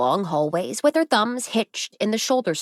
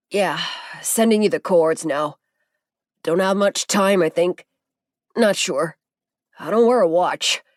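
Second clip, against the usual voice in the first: weak, injured. A narrator's reading. Injured Zeke jokes weakly to Masaru, lightly voiced pain. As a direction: joke weakly through the pain. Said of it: "His mouth didn't work right".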